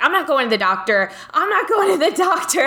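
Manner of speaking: half-laughing, teasing protest; laughing refusal. Retold or imitated. Arguing with the dream voice while laughing.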